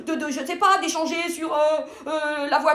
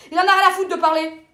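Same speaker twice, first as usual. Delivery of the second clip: vehement; 3 semitones higher, 3 dB louder than usual. Acted. Sermonne son amie sur les hommes.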